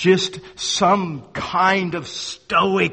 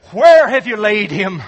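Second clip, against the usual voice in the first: voicing Jesus' question; 3 semitones higher, 6 dB louder than usual. Jesus asks at the grave.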